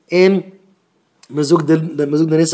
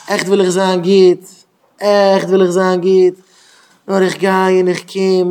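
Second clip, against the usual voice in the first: slow, pleading longing; earnest plea. Retold or imitated. Boy at the grave begging to be good, slow and pleading. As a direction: beg from the heart.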